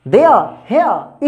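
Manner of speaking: देयर, हेयर with the r dropped, ending in "uh"; British vowels. Shown as a demonstration. Teacher shows the English way: देयर, हेयर without r. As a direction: say देयर and हेयर as "deah, heah", slowly. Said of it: "अंग्रेज ऐसे बोलते हैं".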